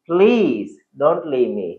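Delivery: slow, drawn-out plea; pleading request. Shown as a demonstration. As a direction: beg him gently to stay. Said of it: "request से बोलेगा".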